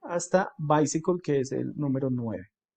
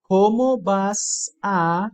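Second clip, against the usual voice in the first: slow model translation; 4 semitones higher, 5 dB louder, much slower than usual. Shown as a demonstration.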